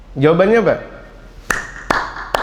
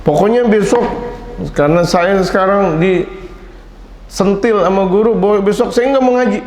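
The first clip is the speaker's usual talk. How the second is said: sulky pupil; 3 semitones higher than usual. Retold or imitated. Voicing a sulky scolded pupil.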